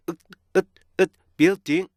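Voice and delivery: 으 as a short choked stop, then BUILDING cut off; "building" ending in a dead halt; abrupt cutoff. Shown as a demonstration. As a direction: snap "building" shut with a T stop. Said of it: "이렇게 뚝 끊어줘야 돼요".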